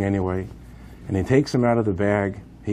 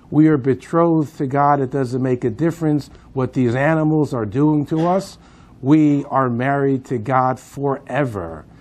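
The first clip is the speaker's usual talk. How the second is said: raised, higher voice, proclaiming to a crowd; defiant proclamation; 4 semitones higher, 4 dB louder than usual. Retold or imitated. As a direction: declare it out loud with conviction. Condemned man proclaims from gallows.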